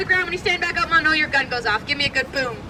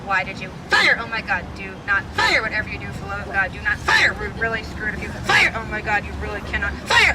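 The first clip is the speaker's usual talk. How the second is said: lower-voiced, lightly hammed-up panicked officer; panicked captain; 5 semitones lower than usual. Guide voicing Captain Preston begging soldiers, low mock panic. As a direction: plead with the troops in a low voice. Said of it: "And he screams".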